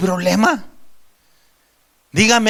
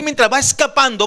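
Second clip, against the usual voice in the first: building urgency; 5 semitones higher than usual. Acted. Repeating the king's flight.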